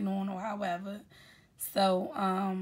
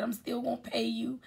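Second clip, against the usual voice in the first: whispered; 3 semitones higher, 5 dB quieter than usual. Retold or imitated. Reassuring quote in a whisper.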